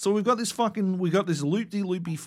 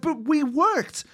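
hammed-up whiny plea, pitched higher; mock whining; 4 semitones higher than usual. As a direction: play the wounded kid begging to be heard. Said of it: "We're like".

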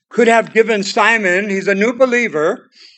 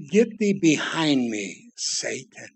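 low, soft, stern rebuke, fading out on Satan; a hushed but stern command, dropping away; harsh rebuke; 5 semitones lower, 6 dB quieter, slower than usual. Retold or imitated. Jesus rebuking Peter, hushed and stern. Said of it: "Jesus said these harsh words".

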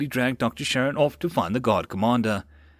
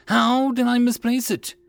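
higher, louder panicked search; frantic cry; 13 semitones higher, 5 dB louder than usual. A narrator's reading. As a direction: call out in a frenzy. Frantic search for missing vial.

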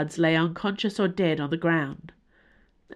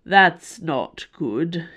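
strained; 4 dB louder, much slower than usual. Acted. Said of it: "he managed".

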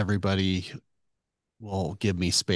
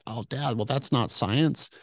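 higher, slow, exasperated objection; a son pushing back, pitched up and drawn out; frustrated protest; 4 semitones higher than usual. Retold or imitated. Son frustrated with his dad's intuition, higher exasperated protest. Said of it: "I was really frustrated".

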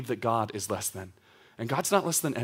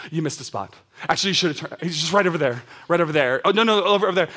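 wife nagging about a parking spot, building to urgent; backseat-driver wife; 2 semitones higher, 4 dB louder, faster than usual. Retold or imitated. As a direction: pester him more and more about the spot. Wife pointing out parking spots.

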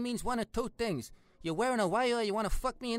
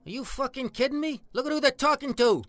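loud, incredulous snapping; exasperated alarm; 6 dB louder than usual. Acted. Warning a companion about the cop outside, exasperated. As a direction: snap at him in agitated disbelief.

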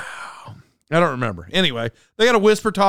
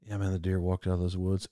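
hunter guy; 11 semitones lower, 12 dB quieter than usual. Retold or imitated. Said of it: "I'm gonna do both parts".

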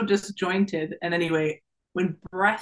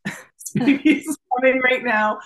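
louder, slow, higher insistence; urgent; 6 semitones higher, 6 dB louder than usual. Retold or imitated. Mother telling the doula the baby is coming, urgent and loud. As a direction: insist the baby won't wait. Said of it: "And I'm like".

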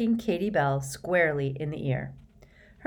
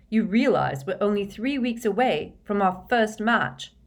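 higher, louder, emphatic briefing; rally the team with triumphant urgency; excited team captain; 5 semitones higher, 6 dB louder than usual. A narrator's reading. Excited captain reporting news, giving orders.

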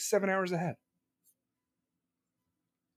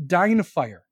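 louder, punchy mock curse; 7 dB louder than usual. Jokingly cursing the viewer who has AC, punchy mock curse. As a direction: bark it out as a joking hex.

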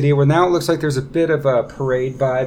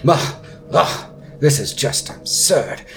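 theatrical royal voice, often rising high; complain, then wheedle like a pampered prince; fussy prince, put-upon; 5 semitones higher than usual. Acted. Prince Darren begs for a cape for his outfit, fussy pleading.

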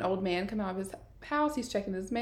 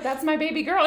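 high, loud mock protest; raised-voice mom objecting; retold protest; 8 semitones higher, 5 dB louder than usual. Mom pleading in retold scene.

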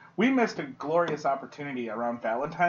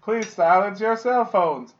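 A J Hawk; 2 semitones higher, 3 dB louder, slower than usual. Acted. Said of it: "A J Hawk did the Marcus Theaters".

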